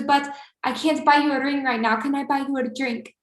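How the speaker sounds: lightly imitated Albanian accent; smooth offer in a light Albanian accent. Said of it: "I'm just trying to do his cute accent".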